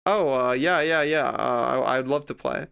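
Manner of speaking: imitating an unenthused, hesitant yes; deadpan. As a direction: agree to play with little interest. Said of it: "deadpan, basically, like, the whole time".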